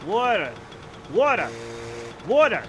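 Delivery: "Water" as "waw-ter"; "Water" with no R in the first syllable; own pronunciation. Shown as a demonstration. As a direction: repeat "Water" firmly with a round "aw". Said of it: "I say water".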